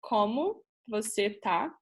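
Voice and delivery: "Como você tá?" modelled clearly with a rising end; Portuguese pronunciation. Shown as a demonstration. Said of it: "you can say".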